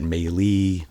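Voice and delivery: Maley said as MAY-lee; mispronounced surname. Shown as a demonstration. Singer showing how people misread his surname, Maley as MAY-lee. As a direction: give Maley a long "ay", then "lee". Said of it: "you, I would get".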